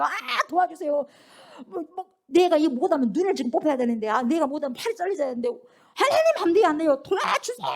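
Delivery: high, frantic begging building to a shout; desperate active plea. Shown as a demonstration. Believer demonstrating all-out prayer to the Spirit, desperate high plea. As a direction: beg as if everything is at stake. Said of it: "이것이 적극적인 태도예요".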